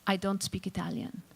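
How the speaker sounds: lightly imitated Italian accent. Check-in woman refusing to speak Italian, Italian accent. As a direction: mimic an Italian accent with understatement. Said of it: "in an incredibly pronounced Italian accent".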